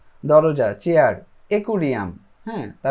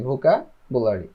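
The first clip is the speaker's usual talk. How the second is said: ভোকাবুলারি drawn out slowly, syllable by syllable; slow demo word; 5 semitones lower, much slower than usual. Shown as a demonstration. Teacher slowly introducing ভোকাবুলারি to the class. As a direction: spell ভোকাবুলারি out slowly for beginners. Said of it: "এই শব্দটা আমরা শুনছি".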